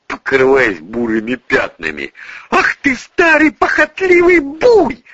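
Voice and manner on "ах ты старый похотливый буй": hissing rage. A narrator's reading. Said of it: "зашипела Юлия".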